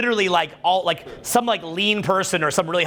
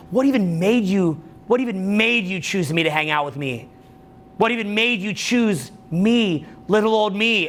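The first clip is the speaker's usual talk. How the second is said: coy flatterer; 3 semitones higher than usual. Retold or imitated. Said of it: "they're saying to you".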